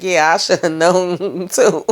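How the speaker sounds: slow, laughing comeback; laughing retort. Retold or imitated. Tommy answering his mother, slow laughing retort. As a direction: throw her line back while chuckling. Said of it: "And he's like".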